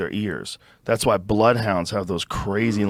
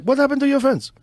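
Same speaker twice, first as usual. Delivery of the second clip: much higher mock voice of the welder; imitating the fence guy; 3 dB louder, faster than usual. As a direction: play the shocked welder, pitched way up. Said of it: "he's like".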